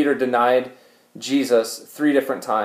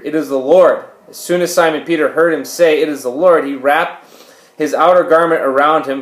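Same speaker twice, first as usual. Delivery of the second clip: slightly raised, measured reading voice; scripture reading; 4 dB louder than usual. Acted. Preacher reading the fishing story to the congregation, measured scripture reading. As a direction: read the Bible passage out clearly to listeners.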